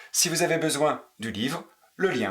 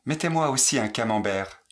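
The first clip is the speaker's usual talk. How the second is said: faster. Shown as a demonstration. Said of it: "Plus vite".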